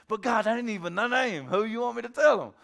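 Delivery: mock exasperated objection, rising in volume; imitated baffled complaint; bewildered protest. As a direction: plead in mild disbelief. Moses protesting, acted.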